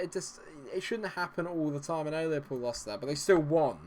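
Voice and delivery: ordinary talk, nothing marked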